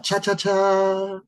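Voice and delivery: big, drawn-out CHA-CHA-CHA; really big. Shown as a demonstration. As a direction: draw CHA-CHA-CHA out long, ending on a held note. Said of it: "We can make it really big now".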